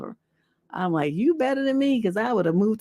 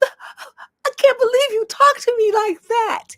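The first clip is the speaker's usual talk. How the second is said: mock high-pitched upset voice, higher and louder; 13 semitones higher, 5 dB louder than usual. Retelling what an upset man said after being cussed out: imitating a high-pitched upset voice. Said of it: "he got high pitched in that moment".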